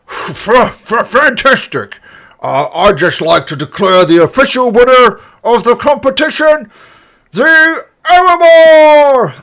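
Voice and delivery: high, loud, excited goblin voice; goblin announcer. Acted. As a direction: announce the winner like a giddy goblin. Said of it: "he comes up to you and says".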